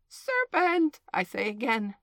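high, loud cry that drops away; slightly subdued outcry. A narrator's reading. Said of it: "but in a more subdued tone".

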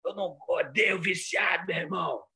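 shouting like a fiery televangelist; preacher shout. Retold or imitated. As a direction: ham up a TV bishop yelling at sinners. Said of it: "Aí ele fazia assim".

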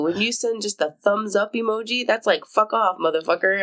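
lightly voiced ranting millennial; TikTok rant. Podcaster quoting a TikTok rant about the thumbs up emoji. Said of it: "that TikTok where it's like".

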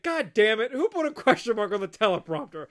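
mock scolding with punched outbursts; exasperated boss. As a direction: rant at the staff as a fed-up boss. Imitates exasperated newsroom boss scolding.

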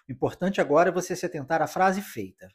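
ordinary talk

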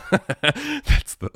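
high burst of laughter into the words; laughing. Real, not acted. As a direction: crack up at the joke. Laughs at his own joke.

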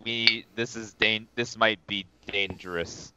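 lightly voiced, low and halting caution; soft, hesitant warning, lightly in character; in-character Norger. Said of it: "Norger will say in Elvish".

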